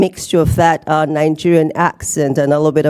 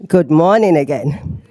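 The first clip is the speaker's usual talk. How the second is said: louder wake-up greeting; 2 semitones lower than usual. Shown as a demonstration. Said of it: "So I'm trying to wake you guys up".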